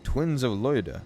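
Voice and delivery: lilting, deliberate verse reading; lyrical poem recital. Acted. Streamer reading A Valentine to chat, lilting and deliberate. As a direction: recite in measured phrases with rising and falling tune.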